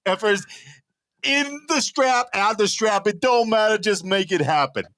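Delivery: hammed-up challenge, imitating the rival arm wrestler; rival's trash talk. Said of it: "How about you impersonate me for a sentence".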